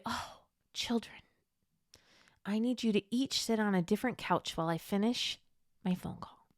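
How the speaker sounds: put-on a mother calmly hushing noisy children; calm hushed parent voice. Calmly telling barreling kids to sit.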